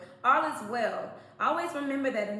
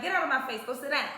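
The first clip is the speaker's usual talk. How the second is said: firm, raised telling-off to a cat; mildly stern, louder order; stern scolding; 3 semitones higher, 4 dB louder, faster than usual. Retold or imitated. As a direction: scold the cat firmly without yelling. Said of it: "even though I sternly, you know, spoke to her".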